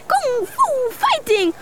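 high, slow, stretched martial-arts shout; drawn-out high kung fu chant; kung fu battle cry. Acted. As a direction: belt it out like a kung fu hero. Girl repeats her trick, leaving.

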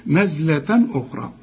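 نزلة with plain n before أخرى; no hum on the n ending نزلة; clear tanween. Shown as a demonstration. Teacher repeats the rule's example, نزلة without nasal hum. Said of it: "ما تغنش".

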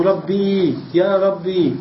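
"ربي" with a long final ee; original ya ending. Shown as a demonstration. Teacher giving the original form, long ee ending. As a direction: hold the ee of "ربي". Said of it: "أصله".

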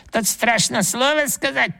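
very high squeaking voice; bird's beak echoing the grandfather, high squeak; squeaky bird beak. A narrator's reading. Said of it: "пискнул птичий нос".

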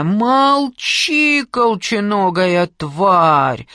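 a high, loud scream dragging out the insult. A narrator's reading. Aunt screaming insults at her niece, enraged. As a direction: roar her down with hatred. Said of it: "заорала Раиса Павловна".

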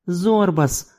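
a lightly voiced cooing woman. A narrator's reading. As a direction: coo the name coaxingly. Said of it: "ворковала мадам".

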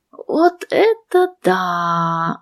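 rapturous whisper. A narrator's reading. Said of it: "восторженно прошептала подруга".

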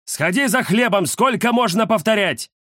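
высоко и громко, сердито отчитывая; дед, которому надоело повторять; ворчливый дедушка. Acted. Дед ворчит на внука. (дедушка ругает внука, громко и сердито)

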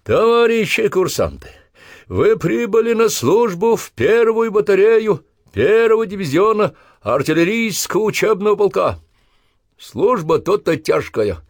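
official address. Acted. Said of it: "на официальной ноте".

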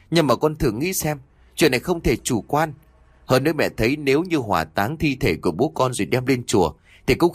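pleading mother. Acted. Mother pleads with angry son.

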